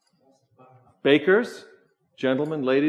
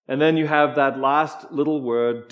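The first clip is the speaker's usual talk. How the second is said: normal talking voice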